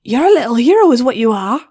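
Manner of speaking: put-on proud, delighted older sister; Flash's voice. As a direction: beam at her. Flash praises her sister.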